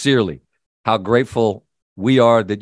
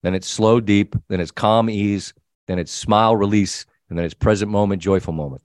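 calm breathing instructions; 4 semitones lower than usual. Shown as a demonstration. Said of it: "Thirty-second mindful breathing. Here's what you do".

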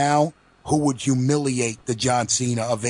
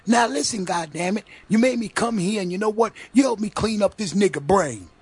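high, heated mock rant; Samuel L impression; 7 semitones higher than usual. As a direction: ham up a furious movie tirade. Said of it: "Samuel L goes".

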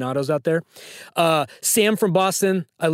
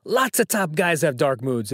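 put-on half-hearted Silvio accent, slightly lowered; poor Silvio accent. Host quoting a trivia line to Sam, poor Silvio accent. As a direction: quote it in a lightly attempted Silvio accent. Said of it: "in my poor Silvio accent".

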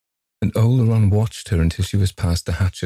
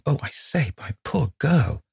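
alarmed cry; 8 semitones higher, 3 dB quieter than usual. A narrator's reading. Man rushing to injured friend, alarmed cry. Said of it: "He sprang to her side in alarm".

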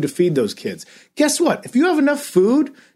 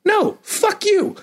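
much higher, slowed-down furious snap; angry retort; 13 semitones higher, slower than usual. Real, not acted. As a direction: spit it back at him slowly. Angry rant at troll.

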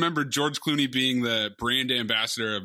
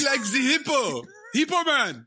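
silly high voice; 9 semitones higher than usual. Pretend. Silly voice about hippo.

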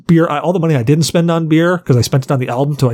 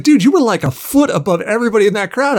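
excited rocker voice; 8 semitones higher than usual. Retold or imitated. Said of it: "He's like".

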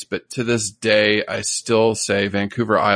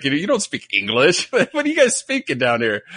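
mock Aussie friends; 4 semitones higher than usual. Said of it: "They'd be like".

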